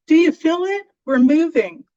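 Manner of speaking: put-on high, loud, frightened child's cry; panicked child screaming that everything moves. A narrator's reading. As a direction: shriek it like a scared kid in the night. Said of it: "I hear a child scream".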